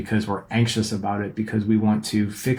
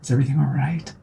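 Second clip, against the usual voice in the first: anxious check-in; 4 semitones higher, faster than usual. Retold or imitated. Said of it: "very different way of approaching".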